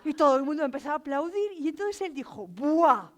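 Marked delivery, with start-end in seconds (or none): 2.5-3.1 put-on a drawn-out, impressed teenage buah; teen's awestruck buah. Teenage boy gushing to the storyteller, awestruck buah. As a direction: sigh it out like a dazzled teenager. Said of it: "quedaos con esto".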